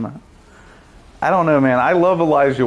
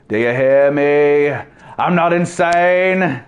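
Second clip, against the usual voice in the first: Sam Neill impression; slower than usual. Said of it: "kinda sounded like Sam Neill".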